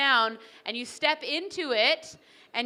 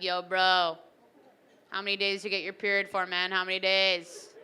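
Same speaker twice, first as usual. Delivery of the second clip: a hint of a macho bro; 4 semitones lower than usual. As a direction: brag like a gym bro. Bro in commercial.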